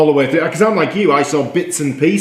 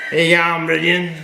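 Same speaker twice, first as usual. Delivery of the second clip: lightly put-on broad Australian accent; Australian bogan voice; 2 semitones higher, slower than usual. Co-host greets listener Bridget for laughs, Australian bogan voice. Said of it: "That's his Australian bargain voice".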